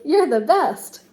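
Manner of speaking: lively storybook read-aloud for a class; expressive picture book reading; reading to children. Acted. Teacher reads picture book aloud.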